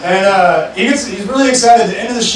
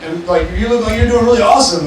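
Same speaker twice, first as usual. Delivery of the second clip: excited shout; 3 semitones higher than usual. Retold or imitated. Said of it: "and he goes".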